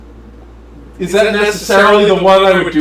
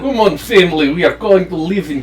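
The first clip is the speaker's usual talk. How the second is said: Russian mother voice; 3 semitones lower than usual. Acted. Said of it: "I'll just be all the characters".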